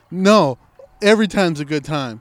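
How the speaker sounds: loud retorting coworker. Retold or imitated. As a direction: toss back a loud, eager retort. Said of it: "She's like".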